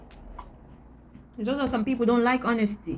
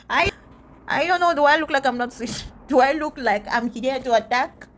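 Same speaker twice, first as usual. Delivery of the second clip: indignant disbelief; 4 semitones higher, 4 dB louder than usual. Real, not acted. Reacting to being called not sweet.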